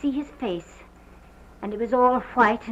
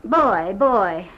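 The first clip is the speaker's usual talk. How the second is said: loud retold cry for help; shouting for the boys in panic; calling out loud; 8 dB louder than usual. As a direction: call the servants loudly, almost a shout. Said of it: "I cried out as loud as I could".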